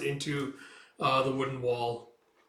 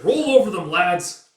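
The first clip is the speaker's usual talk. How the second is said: loud, high rallying shout; charge order; 5 semitones higher, 11 dB louder than usual. Acted. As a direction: send the lads in.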